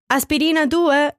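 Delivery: Aspirina due shouted high, due falling hard. A narrator's reading. Pedro shouting the next figure to the circle. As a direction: shout it across the room. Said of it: "schrie Pedro".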